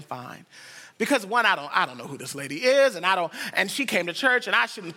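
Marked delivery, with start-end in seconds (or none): 0.0-0.5 customary "fine". Retold or imitated. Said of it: "just saying".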